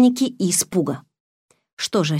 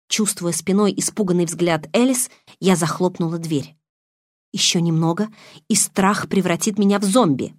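ordinary delivery, nothing marked

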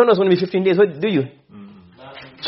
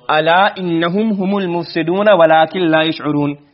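Quran recitation; much faster than usual. Shown as a demonstration. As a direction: chant the verse in melodic recitation. Teacher quotes Quran verse.

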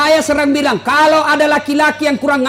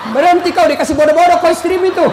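raised, higher-pitched telling-off; mock scolding; 4 semitones higher, faster than usual. Preacher to husband sitting on a wardrobe, mock scolding. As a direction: scold a gullible husband for laughs.

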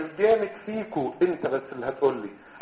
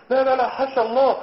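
loud hasty denial; 6 semitones higher, 5 dB louder than usual. Acted. Doctor hastily reassures patient.

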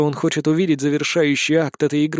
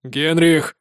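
shouted. Acted. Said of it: "закричал на него Дантес".

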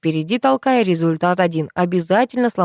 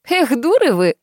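higher-pitched, lightly amused teasing; 6 semitones higher than usual. A narrator's reading. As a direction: chide them with a touch of laughter. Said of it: "засмеялась соседка". (слегка насмешливо)

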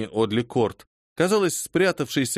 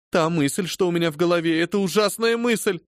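high, distressed plea; anguished; 6 semitones higher than usual. Acted. Phoebe voicing her terrible suspicion to her mistress. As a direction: force out a horrible thought.

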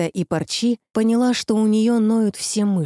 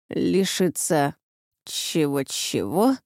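thin, squeaky, strained voice of a frightened rooster; 4 semitones lower, 3 dB quieter, slower than usual. A narrator's reading. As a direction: squeeze the words out thin and squeaky. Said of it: "тонким писклявым голосом".

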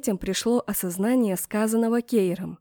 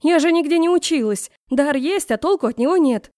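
indignant protest; 7 semitones higher, 6 dB louder than usual. A narrator's reading. Klara protesting in quarrel.

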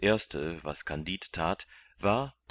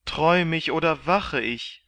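higher, louder amazed question; can't believe his eyes; bewildered disbelief; 11 semitones higher, 8 dB louder than usual. A narrator's reading. Kandid, amazed at finding his friends as slaves, disbelieving.

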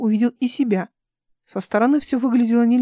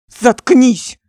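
loud angry bark; 3 semitones higher, 9 dB louder than usual. A narrator's reading. Резко рявкнуть. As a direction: Alik snapping at Dmitry to shut up. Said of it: "рявкнул Алик".

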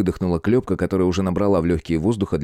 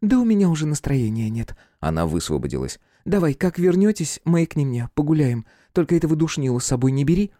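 put-on high, put-out young girl; sulky girl; 9 semitones higher than usual. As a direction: pout it in a high voice. Klyopka leaving offended.

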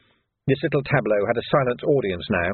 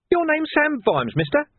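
higher, sneering villain voice; sly thug Carcer. A narrator's reading. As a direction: voice Carcer as a grinning menace.

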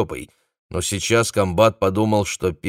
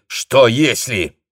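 slow, louder irritated retort; snapping back; 4 semitones higher, 5 dB louder, much slower than usual. A narrator's reading. Battalion commander snaps at the chief of staff. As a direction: bite back at the objection. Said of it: "огрызнулся комбат".

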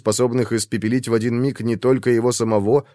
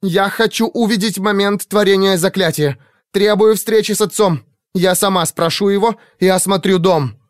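high, loud furious demanding; 9 semitones higher, 4 dB louder than usual. A narrator's reading. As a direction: demand it, shaking with anger. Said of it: "задрожал от вскипаемой ярости".

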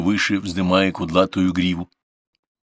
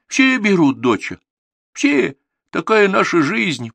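resigned; 12 semitones higher, 4 dB louder, slower than usual. A narrator's reading. Grandma resigned reply.

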